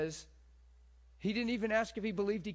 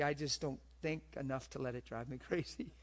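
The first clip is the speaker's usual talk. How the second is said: ordinary talk, nothing marked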